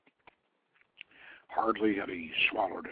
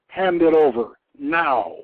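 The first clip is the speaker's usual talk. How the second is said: loud, commanding order; a goddess repeating her demand for the bow; forceful demand; 5 semitones higher, 12 dB louder than usual. Acted. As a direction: bark the demand at him. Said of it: "she repeated her demand".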